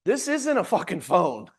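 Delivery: slow, laughing outburst; excited emphasis. Real, not acted. Coach to agents about the phone, slow and worked up. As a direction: punch it with a laugh in it. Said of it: "I get a little excited about this stuff".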